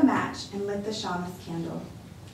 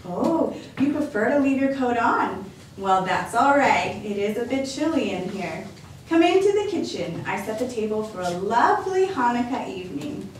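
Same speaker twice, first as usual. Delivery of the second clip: lightly voiced cheerful grandma welcoming a guest; a hint of a bright old lady; old grandmother voice; 3 dB louder than usual. Baba Brana's voice.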